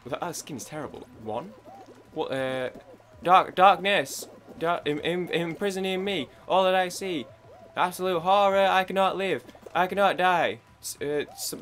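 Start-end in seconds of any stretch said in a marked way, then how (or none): 3.2-10.6 hammed-up dramatic lament. Gamer hams up a tragic villain speech loudly. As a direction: ham it up like a tortured villain.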